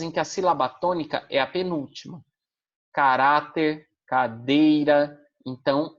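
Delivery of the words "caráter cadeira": "Caráter" with "rá" stressed, "cadeira" drawn out slowly with "dei" stressed; stressed syllable shown. Shown as a demonstration. Teacher to students, showing stress on the penultimate syllable. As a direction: lean on the second-to-last syllable of "cadeira", "Caráter" on "rá". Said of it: "a penúltima é a mais forte".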